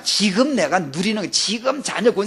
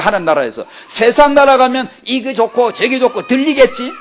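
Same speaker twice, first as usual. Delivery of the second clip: loud, higher rebuking sermon; fervent preaching; 6 semitones higher, 5 dB louder than usual. Acted. Preacher rebukes at full force.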